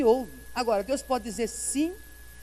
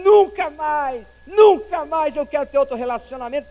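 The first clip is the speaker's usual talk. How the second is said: defiant vow; 4 semitones higher, 10 dB louder than usual. Retold or imitated. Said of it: "E às vezes fala assim".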